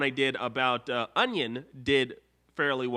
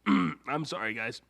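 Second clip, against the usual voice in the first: ordinary talk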